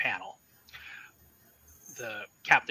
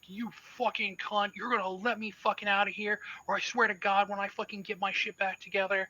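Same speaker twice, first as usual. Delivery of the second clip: put-on a higher-pitched drunk captain yelling curses; drunken bellowing; 8 semitones higher, 3 dB louder, faster than usual. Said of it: "he is just bellowing".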